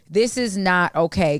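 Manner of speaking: slow, firm and level; firm serious warning, slowed down. Shown as a demonstration. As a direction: say it slowly and mean it. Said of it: "I say it just like that".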